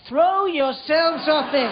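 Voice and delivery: drawn-out dismissal; slow sarcastic punchline. Acted. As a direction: stretch each word slowly. Sarcastic directions end in slow punch.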